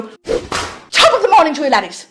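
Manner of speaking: a self-admittedly bad Irish accent, sung out as a greeting; hammed-up Irish accent, cheery YouTuber hello; Jacksepticeye Irish greeting. Imitating a YouTuber's intro, bad cheery Irish accent. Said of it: "I can't do an Irish accent".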